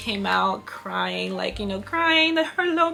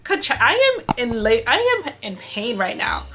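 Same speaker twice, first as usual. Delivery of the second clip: raised, much higher pleading cry at the doctor; exasperated outburst; 6 semitones higher, 7 dB louder than usual. Retold or imitated. Mother in labor snapping at the neonatal doctor, loud and desperate. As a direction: cut him off, you're in too much pain to listen. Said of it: "I was just like".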